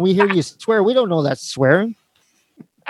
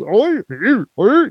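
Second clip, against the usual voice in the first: mock slurred Australian "oi"; caricatured Australian drawl, words run together; slurred Crocodile Dundee; 5 semitones higher, much slower than usual. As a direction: imitate a thick, slurry Aussie accent. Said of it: "like, slurred. Like a Crocodile Dundee".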